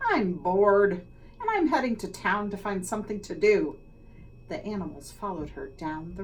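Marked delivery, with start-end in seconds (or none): 0.1-3.8 loud, bored hen voice; squawking hen. Acted. Hen telling the barnyard she's bored, loud squawk. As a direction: whine it out like a fed-up hen. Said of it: "the hen squawked".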